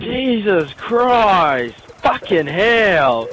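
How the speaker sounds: slow, drawn-out exasperated cursing; frustrated. Real, not acted. Player sweating over the game, frustrated. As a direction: draw out each curse in frustration. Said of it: "I'm so fucking frustrated".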